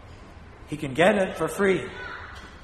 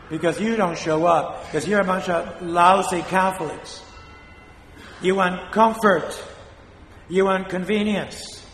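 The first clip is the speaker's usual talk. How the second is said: scolding; 3 dB louder than usual. Real, not acted. Priest scolding lousy Catholics.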